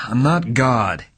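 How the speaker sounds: irritable detective; irritably. Acted. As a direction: snap it out, fed up. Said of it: "he said irritably".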